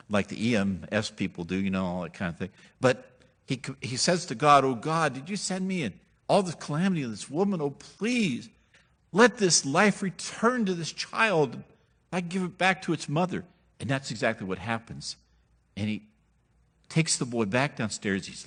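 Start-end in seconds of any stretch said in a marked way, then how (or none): 4.6-13.4 pleading prayer. Acted. Elijah begs God to revive the widow's son. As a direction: beg God for the boy's life.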